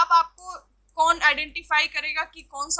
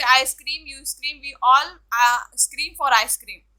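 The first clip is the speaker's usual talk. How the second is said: slow, deliberate twister, a bit louder; slow tongue twister; 5 dB louder, much slower than usual. Shown as a demonstration. Teacher showing students a fun twister, slow and clear. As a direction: draw each word out slowly. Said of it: "जैसे".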